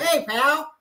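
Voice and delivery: high chummy white guy. Retold or imitated. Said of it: "a lot of people say that's white folks".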